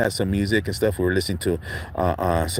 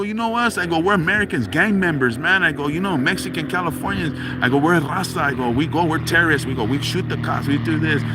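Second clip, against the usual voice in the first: higher tough-guy threats; mock tough talk; 6 semitones higher than usual. Narrator retells threatening the tough guy, higher mock anger. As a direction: retell standing up to him. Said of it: "I had to step back and go".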